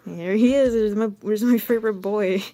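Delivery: loud, hammed-up delight; gushing greeting. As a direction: greet your favorite with mock fanfare. Gushing greeting as Henry enters.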